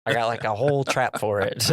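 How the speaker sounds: nasal nerdy dad impression; nerd voice. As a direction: play it like a meek nerd. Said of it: "I gave him a nerd voice".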